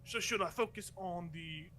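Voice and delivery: lightly voiced junior guard; guard unsure of his orders; hesitant underling. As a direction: fumble a question to the boss. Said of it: "or the other guy's like".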